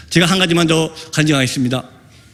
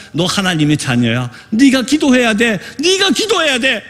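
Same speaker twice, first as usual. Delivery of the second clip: insistent urging; 3 semitones higher, slower than usual. Retold or imitated. Missionary urges the possessed woman to pray, insistent urging.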